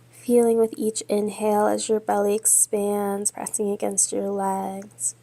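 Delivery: measured yoga-teacher cueing with long pauses; guided yoga meditation. Real, not acted. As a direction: guide them steadily through breath and pose, leaving space between phrases. Leads yoga and breathing meditation.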